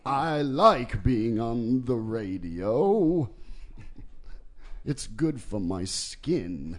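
put-on slow, teetering old British voice; lightly voiced wobbly old gentleman; slow wise elder. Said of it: "the wobbly elder British voice".

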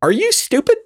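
talking down, high and mocking; condescending voice. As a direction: ask it like they're dumb. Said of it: "I'm asking in this condescending voice".

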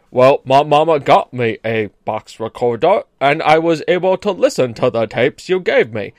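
simple, earnest Southern boy impression; young Forrest's Southern accent. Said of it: "the way he spoke was like".

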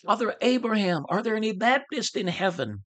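a high, yearning call to the sky; crying out to heaven. Retold or imitated. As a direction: lift the voice up toward Abraham. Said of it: "cried out".

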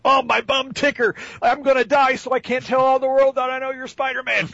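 high, wheezy dying crook milking his last words; dying old burglar. Retold or imitated. Podcaster mocks the Spider-Man 2 burglar, hammed-up dying voice. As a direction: ham up a frail villain on his deathbed.

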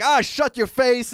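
high-pitched, drawn-out mock retort; mocking impression. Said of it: "he was always like".

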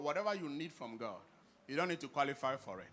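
ordinary talk

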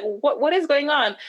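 high-pitched, stammered puzzlement; retold bewildered question; confused. Wife retelling her reaction to husband's messages, confused.

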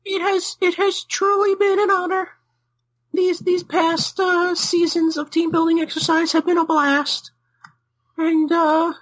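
mock-solemn halting goodbye; halting farewell. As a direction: give a staged farewell speech with long pauses. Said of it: "Are you dying".

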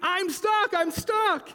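high squeaky beeps and cries; very high, urgent character voice; little truck crying out. A narrator's reading. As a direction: squeal it like a small stuck truck. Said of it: "cried the little blue truck".

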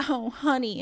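put-on a touch of a Southern lady's accent. Company lady answering a hopeful renter, light Southern accent. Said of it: "in her southern accent".

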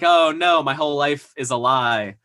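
hammed-up loud, high oh no; mock despair. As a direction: play his life-crashing dismay half in jest. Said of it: "he's just like".

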